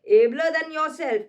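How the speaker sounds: slow loud stage boast. Acted. Recites Cassius boast.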